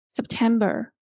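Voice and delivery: "September" said with a falling close; falling intonation. Shown as a demonstration. Teacher repeats an example of a statement, falling "September". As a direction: let "September" settle downward at the end. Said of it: "Okay, a falling".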